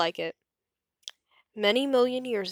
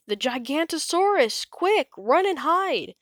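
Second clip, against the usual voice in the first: crying out; 8 semitones higher, 3 dB louder than usual. A narrator's reading. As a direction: raise the alarm in a panic. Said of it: "Bonehead cried".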